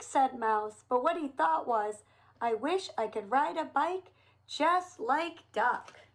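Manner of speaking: put-on lively storybook reading for little kids; reading to children. A narrator's reading. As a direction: read it like a picture book for children. Reads picture book to children.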